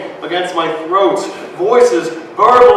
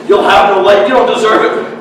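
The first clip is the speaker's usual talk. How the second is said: stern mother; 4 semitones higher, 5 dB louder, faster than usual. Acted. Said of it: "She says".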